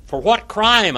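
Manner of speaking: high, loud indignant question; forceful challenge. A narrator's reading. Pilate questioning the accusing crowd, forceful challenge.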